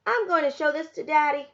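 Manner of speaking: put-on a boy bursting to show his drawing; excited boy. A narrator's reading. Samuel announcing to his mother he'll show Daddy, excited.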